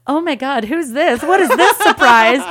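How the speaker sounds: hammed-up delighted shock; feigned surprise. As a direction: act amazed at a surprise you planned. Hirer feigns surprise at singer.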